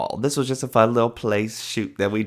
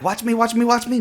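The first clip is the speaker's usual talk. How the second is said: excited show-off; 13 semitones higher than usual. Retold or imitated. Acts out his excited anime run.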